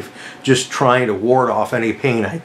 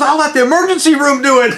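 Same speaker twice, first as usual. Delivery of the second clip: high, raised voice over commotion; acted exasperated yell; 14 semitones higher, 4 dB louder than usual. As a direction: call it off, worked up. Medic gives up during shouting match.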